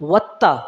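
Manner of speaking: "وتا" with a held double t; doubled consonant. Shown as a demonstration. Teacher shows how a shadda would sound, doubled t in "وتا". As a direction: press and hold the t in "وتا". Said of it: "اگر شد ہوتی تو".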